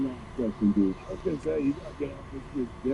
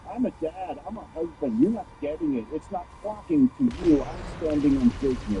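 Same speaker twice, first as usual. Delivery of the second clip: imitating an indignant rant, building louder; mock yell; 3 semitones higher, 5 dB louder than usual. Host quoting a singer's showdown with paparazzi, mock yelling. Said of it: "in which he yelled at the photographer".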